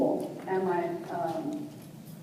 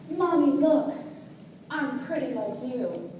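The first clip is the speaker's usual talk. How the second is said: lightly voiced small girl, higher opening; proud child showing off, drawn out at the end; little daughter; 4 semitones higher, slower than usual. Four-year-old showing Mommy the white nylons, lightly childlike.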